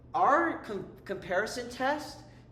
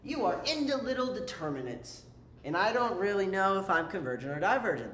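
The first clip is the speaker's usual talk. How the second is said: test talking; 3 dB louder than usual. Pretend. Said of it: "what this is gonna say is".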